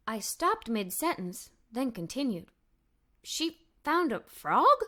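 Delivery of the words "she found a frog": surprised. Acted. Amazed at the dog's find.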